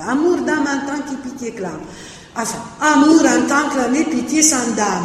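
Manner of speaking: verse recitation; reciting verse drafts. Shown as a demonstration. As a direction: declaim each draft line in turn. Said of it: "on le retrouve dans la version finale".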